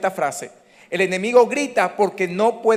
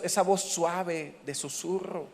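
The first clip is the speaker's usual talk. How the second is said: soft, whisper-like delivery; 6 dB quieter, slower than usual. Shown as a demonstration. Softens to illustrate soft voice.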